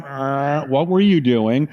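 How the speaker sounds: slow, growled demonic question; mock Exorcist mom. Mom catching her teenage son, hammed-up Exorcist voice. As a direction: imitate a possessed mother, drawn out. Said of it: "like, The Exorcist, her head just turns around".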